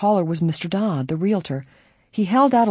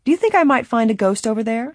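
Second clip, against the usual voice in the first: put-on eager excited girl detective; 7 semitones higher, 3 dB louder than usual. A narrator's reading. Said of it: "the young sleuth also laughed".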